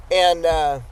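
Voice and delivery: throat irritated; strained between coughs; just swallowed a bug. Real, not acted. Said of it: "I literally swallowed a bug".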